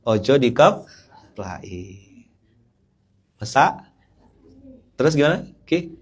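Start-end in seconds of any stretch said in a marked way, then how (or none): 0.1-3.7 very slow Javanese phrasing; lightly voiced gentle Javanese; hint of refined Javanese; Javanese speech. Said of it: "seperti orang Jawa".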